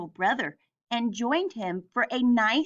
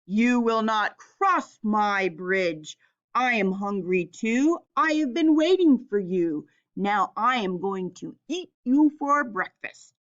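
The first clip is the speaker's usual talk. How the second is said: troll screams. Acted. Troll threatens the middle goat. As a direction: menace the goat. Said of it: "as he screamed".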